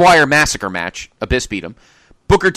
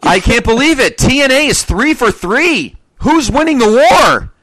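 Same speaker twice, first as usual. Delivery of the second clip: mock-triumphant shout; 8 semitones higher, 6 dB louder than usual. Host crowing about TNA going three for three, mock-triumphant. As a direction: crow it loudly, stretching the key words.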